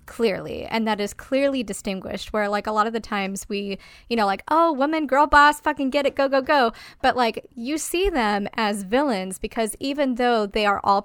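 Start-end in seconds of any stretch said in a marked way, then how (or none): 4.5-6.7 high, loud hype-up chant; mock cheering. Podcaster parodying fans cheering a girl boss, mock cheering. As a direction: imitate an over-keen cheerleader, pitched up.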